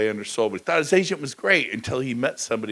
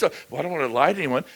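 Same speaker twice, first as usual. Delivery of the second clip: usual speaking voice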